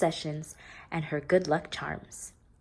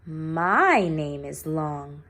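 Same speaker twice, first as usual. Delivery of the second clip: slow, calm correction; gentle teacher; 3 semitones lower, much slower than usual. Acted. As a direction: calmly step in for the child. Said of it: "said Missus Twinkle".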